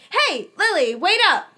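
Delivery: loud, high call after her. A narrator's reading. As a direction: shout down the hall to her. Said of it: "he called after her".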